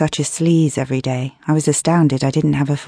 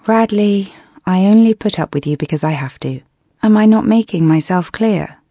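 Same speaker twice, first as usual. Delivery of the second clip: irritated; 5 semitones higher than usual. Acted. Angry retort to flirting coworker.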